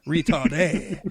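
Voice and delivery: put-on French-accented ending on a word; mock French. Joking with co-host after a slip, mock French. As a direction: give it a fake French finish. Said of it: "pardon my French".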